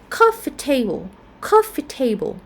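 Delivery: "coffee table" with the weight on COF of "coffee"; stress on coffee. Shown as a demonstration. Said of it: "stress on the first syllable".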